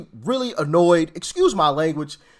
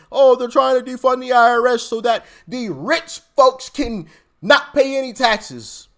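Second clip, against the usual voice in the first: mock Democrat complaint; 4 semitones higher, 4 dB louder than usual. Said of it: "kick, yell, and scream".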